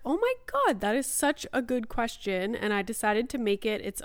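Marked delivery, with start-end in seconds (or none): 0.0-2.5 excited. Retold or imitated. Quoting her own excited reaction.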